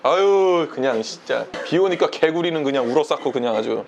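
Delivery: low, grumbling complainer act; 가짜 믿음의 불평. Retold or imitated. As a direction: grumble low about everything, in imitation. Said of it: "가짜 믿음은 이렇게 말해". (낮게 투덜거리는 흉내)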